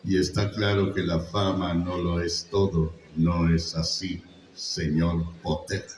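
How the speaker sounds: slow, throaty, with dramatic pauses; cold slow sneer at Potter; Snape. Shown as a demonstration. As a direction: drawl the rebuke with long pauses. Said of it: "se fijan cómo habla".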